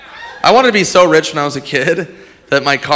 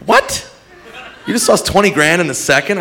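incredulous yell; 4 semitones higher than usual. Retold or imitated. Comic incredulous.

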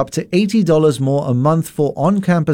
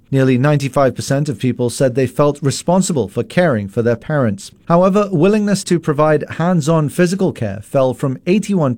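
measured, formal news bulletin read; steady radio news anchor voice. Acted. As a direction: read the headlines crisply, like a newsreader.

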